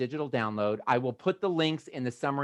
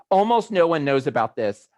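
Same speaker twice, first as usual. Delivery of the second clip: louder first take; 7 dB louder than usual. Real, not acted.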